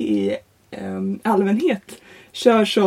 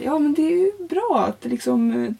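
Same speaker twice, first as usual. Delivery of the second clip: nervous student agreeing with the examiner, higher pitch; nervous eager agreeing; 6 semitones higher than usual. Retold or imitated. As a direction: force an eager answer, higher. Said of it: "Och jag var så här".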